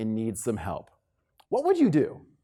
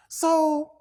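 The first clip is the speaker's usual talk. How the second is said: interviewer voice; 10 semitones higher, slower than usual. Retold or imitated. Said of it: "you're probably asked".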